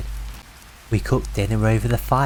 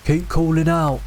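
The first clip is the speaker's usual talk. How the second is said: raised, higher yell into the dark; 6 semitones higher than usual. A narrator's reading. Brother yelling to the voice in the woods, raised. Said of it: "my brother yelled".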